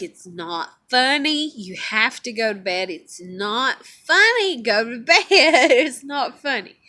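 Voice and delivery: slow, emphatic retold scolding; trying to be serious. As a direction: spell it out slowly, a laugh slipping in. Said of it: "I got really serious because".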